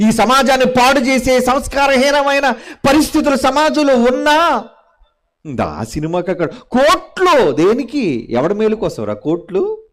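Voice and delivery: fiery sermon. Real, not acted. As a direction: scold the whole crowd from the pulpit. Preacher rails against film songs.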